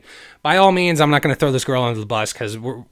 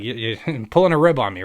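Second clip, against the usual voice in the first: amused, halting disbelief; laughing disbelief; 4 dB louder than usual. Retold or imitated. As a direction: chuckle in the middle of the words. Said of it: "I'm laughing".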